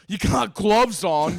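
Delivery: loud, slow, laughing brush-off; laughing dismissal. Retold or imitated. Drunk friend laughing it off.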